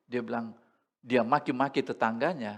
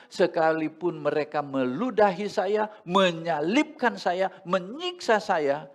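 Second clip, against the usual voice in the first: louder, slow and rising; fervent preaching; 4 semitones higher, 5 dB louder, slower than usual. Acted. Preacher voicing Christ's suffering, fervent and slow. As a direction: build it up fervently.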